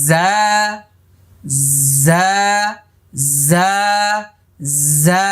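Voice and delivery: জা buzzed lightly through the teeth; soft za. Shown as a demonstration. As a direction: say জা with a gentle buzz. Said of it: "আমার সাথে সাথে বলুন".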